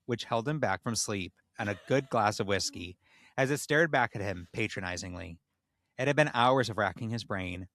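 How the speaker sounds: measured storyteller reading; measured storyteller reading a tale aloud; story narration. A narrator's reading.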